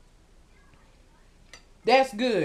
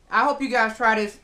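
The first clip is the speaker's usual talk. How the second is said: mouth full. Real, not acted. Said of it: "Excuse me for eating with this food in my".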